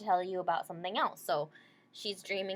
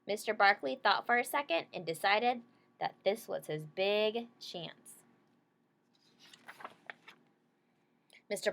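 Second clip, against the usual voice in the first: clear, gentle picture-book read-aloud; reading to children. Acted. Teacher reading a picture book to her class, gentle read-aloud.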